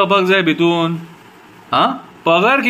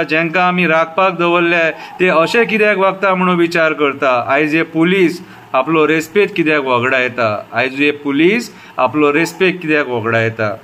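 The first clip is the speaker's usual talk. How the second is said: repeated refrains with falling line ends; poem recitation. Shown as a demonstration. Citizen reciting a poem about the police, measured recitation. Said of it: "आतां कविता बरयल्या ती आयका".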